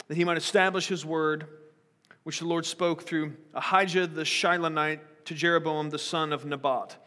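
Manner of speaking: measured Bible reading aloud; scripture reading. Acted. Pastor reading Kings aloud to the church, measured. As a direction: read the passage to the congregation.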